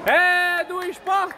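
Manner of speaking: slow, stretched celebration shout; drawn-out goal call. Real, not acted. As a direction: stretch it out in triumph. Anúncio do gol. (anúncio do gol arrastado)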